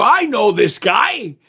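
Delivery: delighted recognition. Retold or imitated. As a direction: re-enact happily spotting a familiar face. Greeting familiar guard on walking in.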